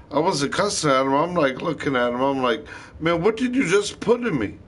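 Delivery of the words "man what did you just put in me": alarmed yelp. Retold or imitated. Alarmed after the injection.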